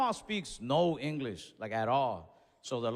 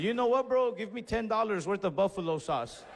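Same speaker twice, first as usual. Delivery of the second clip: worked-up challenge; 5 semitones higher than usual. Retold or imitated. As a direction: throw down a dare at the counter. He escalates at cashier.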